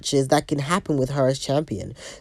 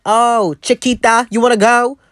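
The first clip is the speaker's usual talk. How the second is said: mocking Raquel; 4 semitones higher, 5 dB louder than usual. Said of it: "She'll be like".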